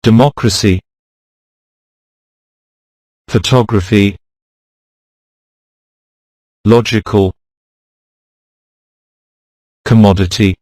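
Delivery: democracy, photography, logical, commodity, psychology, each stressed on the third syllable from the end; third-to-last syllable stress. Shown as a demonstration. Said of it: "the stress is often on the third to last syllable".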